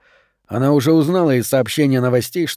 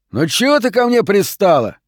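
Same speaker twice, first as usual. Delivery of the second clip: much higher, louder irritated outburst; angry snap; 8 semitones higher, 4 dB louder than usual. A narrator's reading. Benson to Lane who keeps pressing: angry outburst. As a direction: shove her off with the words.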